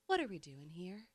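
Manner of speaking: very soft, calming radio voice; late-night DJ voice. Shown as a demonstration. Demonstrating a negotiator's calming voice, late-night DJ. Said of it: "He calls it a late night D J radio voice".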